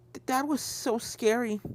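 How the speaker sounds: shaky after the scare; tearful filly. Acted. Apple Bloom to the stallion, tearful and shaken.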